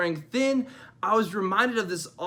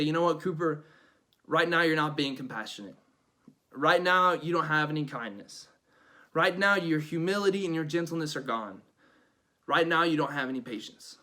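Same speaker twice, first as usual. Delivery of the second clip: calm self-correction; 2 semitones lower than usual. Acted. Talking sternly to himself, calm.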